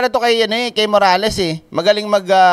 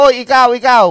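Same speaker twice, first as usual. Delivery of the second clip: mock pointing call; 3 semitones higher, 5 dB louder than usual. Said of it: "Parang ginagaya mo".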